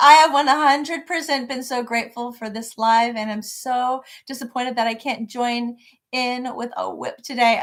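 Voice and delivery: ordinary talk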